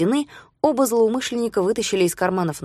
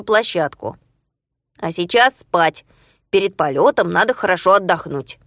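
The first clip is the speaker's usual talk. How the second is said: Znayka voice. Acted. Znayka speaks in story.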